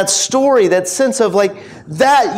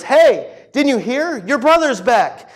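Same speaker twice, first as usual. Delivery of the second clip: higher-pitched, eager retold announcement; excited news-breaking; 4 semitones higher, slower than usual. Servant telling older brother of the return, excited. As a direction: play a servant bursting with news.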